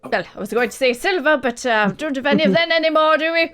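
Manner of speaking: courteous shopkeeper, lightly put on; lightly voiced shopkeeper. Merchant quotes price.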